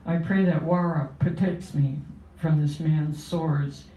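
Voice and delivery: measured, steady poetry reading voice; poem reading. Acted. Poet reading her poem to the audience, solemn and steady.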